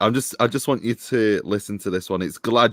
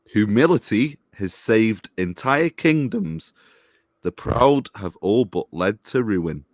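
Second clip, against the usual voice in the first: solemn quote reading. Shown as a demonstration. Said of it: "read it to me again".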